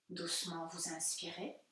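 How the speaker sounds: calm yoga nidra guidance with long pauses; unhurried meditation teacher voice; guided meditation. Real, not acted. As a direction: gently guide listeners inward, leaving space between phrases.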